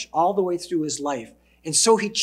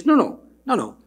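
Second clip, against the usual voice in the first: eager protest; 5 semitones higher, 5 dB louder than usual. Acted.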